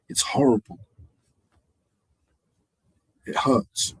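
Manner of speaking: breathy, unvoiced murmur of real hurt; hushed and wounded; hurt whisper. Real, not acted. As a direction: whisper it as if it still stings. Hurt by how people talk.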